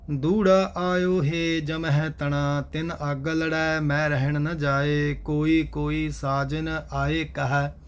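steady, measured chanted reading of scripture; gurbani recitation. Acted. Teacher recites verses for the class in steady recitation. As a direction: recite each line evenly and devoutly.

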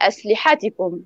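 أسلحتكم with the push on the ح, as the student said it; wrong stress on the Ha. Shown as a demonstration. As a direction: give أسلحتكم a soft push on the ح, the student's mistake. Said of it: "الطالب أخطأ قال".

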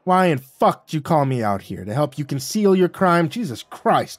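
loud, high furious yell. Acted. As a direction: rage at him for calling you out. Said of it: "I yelled".

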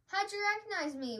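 high-pitched turkey wail. A narrator's reading. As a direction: wail it in mild dismay. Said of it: "wailed Turkey".

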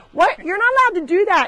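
high, loud, fast telling-off; quick stern shout at a naughty animal; fast scolding. Real, not acted. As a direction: rattle off a scolding at the goat. Scolding the biting goat.

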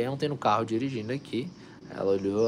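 ordinary delivery

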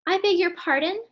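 high, indignant disbelief; shocked question. Acted. Henrietta gasps at her husband's plan, surprised. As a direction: rise up in surprise. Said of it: "asked Henrietta".

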